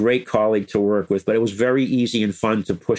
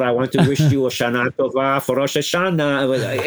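lightly imitated Israeli accent; gentle Israeli accent on a holiday greeting; 2 semitones higher than usual. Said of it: "in her Israeli accent".

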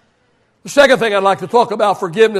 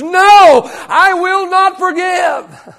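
wounded defiant inner voice; 3 semitones higher than usual. Retold or imitated. Pastor voices the hurt heart refusing an apology, mock indignant. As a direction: play the hurt pride that won't let go. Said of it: "something down deep inside of us says".

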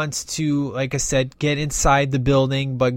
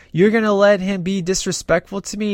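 upset; 6 semitones higher than usual. Retold or imitated. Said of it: "she gets all upset".

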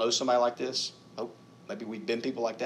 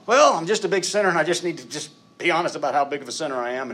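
higher, louder, hammed-up wallowing confession; mock the groveling big-sinner attitude; mock self-pitying sinner; 6 semitones higher, 7 dB louder than usual. Preacher mocks the wrong self-focused confession, hammed-up and wallowing. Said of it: "And, no, no".

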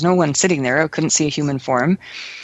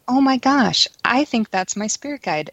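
higher, excited reenacted realization; 7 semitones higher than usual. Woman retelling the moment she recognized her spirit guide, excited realization. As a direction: relive the moment it dawned on you.

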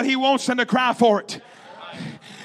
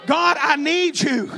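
urgent, repeated pleas in a preacher's voice; crying out to God; 2 semitones higher than usual. Acted. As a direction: call out to God in demonstrative prayer. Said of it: "Cry for your needs".

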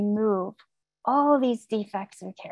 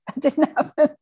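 nervous laughing denial; 5 semitones higher than usual. Retold or imitated. Hiding the positive test.

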